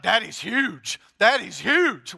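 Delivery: lightly voiced little kid chanting; a hint of a proud toddler; imitating a toddler. Son repeating to daddy, lightly voiced toddler chant.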